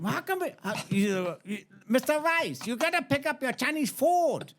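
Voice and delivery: put-on very high caricatured Asian accent; indignant prank caller, high mock Asian accent. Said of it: "you can't do an Asian accent".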